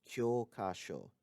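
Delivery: kyokasho with the first O held long. Shown as a demonstration. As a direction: stretch the first syllable of kyokasho, keep the last short. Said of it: "has a long O sound in the first syllable".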